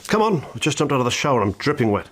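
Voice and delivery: a hammed-up housewife answering the phone; mock customer on the phone. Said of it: "Pretend you're on the phone to me".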